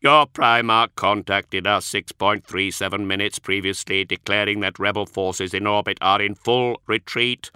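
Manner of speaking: a polite machine reciting its excuses; synthetic Magos voice. Acted. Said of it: "Archoi's synthesized voice".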